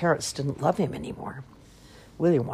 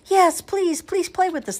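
very high, begging squeak; squeaky baby crocodiles; 6 dB louder than usual. A narrator's reading. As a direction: squeal a plea like excited little hatchlings. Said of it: "they all squeak together".

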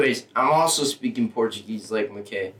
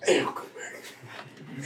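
quiet, slow, breathy laugh; 2 semitones higher, 9 dB quieter, much slower than usual. Real, not acted. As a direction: laugh the words out softly. Said through laughter.

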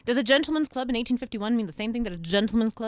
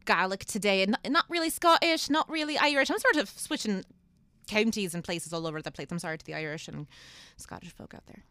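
mock Irish accent. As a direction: put on a shaky attempt at an Irish accent. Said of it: "it's better than when I do Irish accents".

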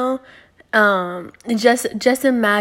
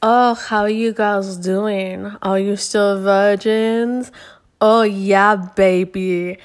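sleazy texter voice; slower than usual. Retold or imitated. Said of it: "he would text me and my best friend say".

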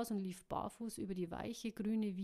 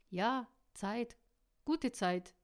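louder, lightly gleeful delivery; giggling; 3 semitones higher, 6 dB louder, slower than usual. A narrator's reading. He answers that it is time, mildly gleeful. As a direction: say it with a touch of a chuckle. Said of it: "kicherte er".

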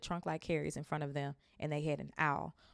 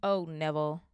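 put-on louder, weary old woman; sighing gran; 6 dB louder than usual. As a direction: sigh at the boy. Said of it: "he heard the old woman sigh".

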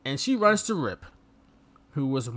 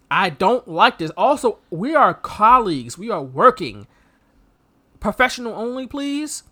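voicing Samantha; 3 semitones higher, 4 dB louder than usual. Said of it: "She just said".

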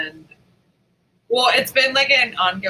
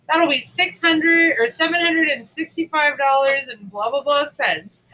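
slightly higher, patient but pointed total; mock cashier voice; 5 semitones higher, 3 dB louder than usual. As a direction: cashier repeating the price. Repeats cashier total, imitated.

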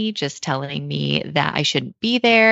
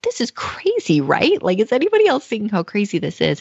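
incredulous plea; 5 semitones higher than usual. Retold or imitated. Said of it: "you're like".

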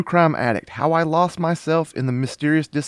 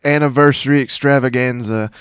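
hyped announcer; 5 dB louder than usual. Pretend. Showman announcement continues.

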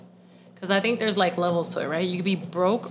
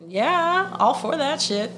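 excited agreement; 8 semitones higher, slower than usual. Retold or imitated. Enthusiastic group agreement.

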